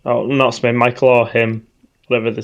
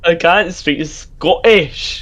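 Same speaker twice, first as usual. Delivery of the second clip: soft posh Scottish; 6 semitones higher, much slower than usual. Acted. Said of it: "I'm just doing a random ass voice".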